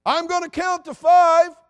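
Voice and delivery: high, loud, slow warning; threatening parent yell. Retold or imitated. Parent warning the child across the house, slow loud threat. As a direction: bellow the countdown threat.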